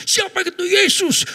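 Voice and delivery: high, slow shouted question; shouting preacher. Retold or imitated. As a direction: yell it at the congregation. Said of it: "dengan suara yang keras". (teriakan pendeta yang keras)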